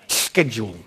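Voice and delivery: schedule said low with an "sk" start; hard SK pronunciation. Shown as a demonstration. Preacher settles which way to say it, schedule with SK. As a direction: land on "SKED-yool", dropped in pitch. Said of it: "Do you say schedule or schedule?".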